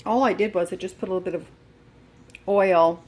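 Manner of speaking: talking while chewing; mouth full. Real, not acted. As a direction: speak through a mouthful of food. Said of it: "I'm chewing".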